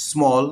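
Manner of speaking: স্মল with an "aw" vowel, "smawl". Shown as a demonstration. Teacher giving an example of A, স্মল said "smawl". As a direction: sound the A in স্মল as "aw". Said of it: "এর উচ্চারণ স্বরেও হয়".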